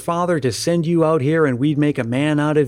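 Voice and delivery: measured audiobook storytelling, unhurried pauses between sentences; story narration. A narrator's reading. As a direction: read a Christmas tale aloud with clear phrasing.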